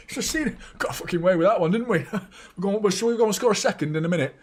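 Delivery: high, giggling imitation of smug players; laughing, high-pitched mock players' banter; mock gloating players. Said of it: "were just coming out like".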